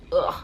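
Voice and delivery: exasperated 'ugh'; geërgerde zucht. Retold or imitated. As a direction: let out a fed-up groan. Exasperated groan in retold scene.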